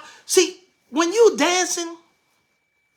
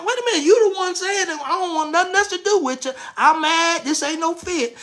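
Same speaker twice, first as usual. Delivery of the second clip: mock indignant ex; 4 semitones higher than usual. Ex's indignant reply, acted.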